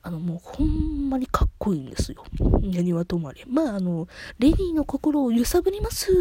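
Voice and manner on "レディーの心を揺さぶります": high, dramatic charmer's line; a hint of a gallant stage pirate; suave pirate line. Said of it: "って、まあ、スキャターの".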